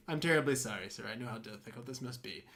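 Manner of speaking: a hint of a soft, low consoling doctor; lightly voiced sympathetic doctor, dropping away; calm doctor. Doctor consoles husband in retelling.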